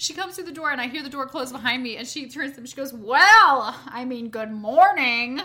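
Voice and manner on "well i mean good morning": play-acted sassy, snide, very slow, stretched-out delivery. Retelling what a woman said at the door: imitating a sassy remark. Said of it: "She said it just like that".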